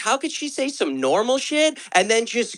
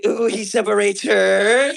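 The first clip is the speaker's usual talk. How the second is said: slow teasing swoon, rising at the end; hammed-up sigh over the book; lightly mocking swoon; mock swooning reader; slower than usual. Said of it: "how could she be like".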